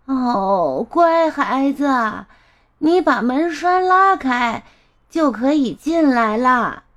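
lightly voiced old granny, words stretched; grandmother calling with effort. Grandma tells the child to open the latch, calling with effort. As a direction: strain to call out like an old woman. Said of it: "外婆用力喊道".

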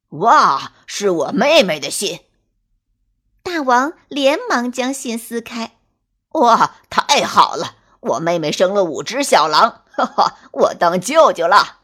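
thrilled new uncle celebrating; overjoyed. Acted. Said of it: "黑狼大王高兴地".

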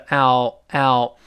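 "l" said slowly as "ow", sliding ah to oo; full diphthong ow. Shown as a demonstration. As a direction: stretch the "ow" glide. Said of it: "有啊，滑到o". (从"啊"滑到"o")

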